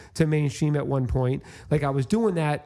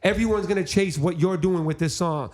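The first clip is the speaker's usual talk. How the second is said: excited prediction; 5 semitones higher than usual. Retold or imitated. Acts excited prediction to friend.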